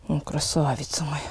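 soft tender whisper. Real, not acted. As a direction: whisper sweetly to a horse. Whispering to the mare.

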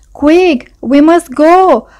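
high, loud, drawn-out rallying call; urgent cry. A narrator's reading. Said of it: "cried Vole".

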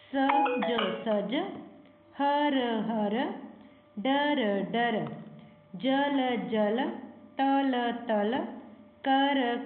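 first take stretched letter by letter, second blended, as in ਕਲਮ, ਕਲਮ; sounding out letters. Shown as a demonstration. Teacher reads the page aloud for children, sounding out. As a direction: draw out each sound, then say the word whole. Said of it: "ਅੱਖਰ ਦੀ ਆਵਾਜ਼ ਬੋਲਣੀ ਹੈ".

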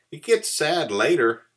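high, loud chirpy mouse; promising. A narrator's reading. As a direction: promise it brightly to a cross listener. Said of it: "Mouse promised".

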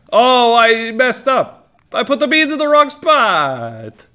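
high, loud, drawn-out lament; mock wailing opponent. Player mocking opponent who botched the beans, wailing. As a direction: wail it in hammed-up dismay.

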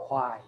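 "ควาย" with a clear breathy h before the w; clearly aspirated wh. Shown as a demonstration. Teacher showing students how the singer says why, "ควาย" with audible h-w onset. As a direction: start "ควาย" on an h blended into w. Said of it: "เขาออกชัดมากเลยนะ".

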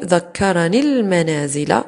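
slow ذكرني المنازل linked as dhakkaranil-manaazila; drawn-out ذكرني المنازل with a held l; elided ya. Shown as a demonstration. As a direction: join ذكرني المنازل straight through the lam. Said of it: "فنقول".

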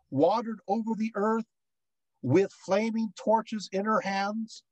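slow, measured reading aloud; hymn recitation. Acted. Lecturer reading of the wandering goddess to the class, slow recitation. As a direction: draw out the images phrase by phrase.

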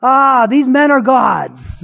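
mock worshipful awe. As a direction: drag it out in hammed-up wonder. Crowd worship mimicked.

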